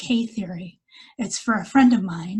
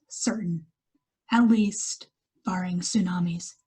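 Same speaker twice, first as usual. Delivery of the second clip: measured poetry reading with pauses between lines; poem recital. Acted. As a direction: read each line as verse, letting it settle. Reads her poem aloud.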